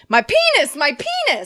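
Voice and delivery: high, loud mock-panicked cries; raising an alarm. Victim alerting the street in the story, mock alarm. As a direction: call out in hammed-up alarm. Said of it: "The victim raises an alarm".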